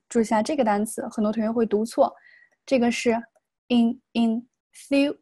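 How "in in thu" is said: "in, in, thu" in slow separate syllables, thu stressed. Shown as a demonstration. Teacher breaking down enthusiasm for students, slow stressed "thu". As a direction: break it up slowly and lean on "thu". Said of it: "这个重音在这个地方".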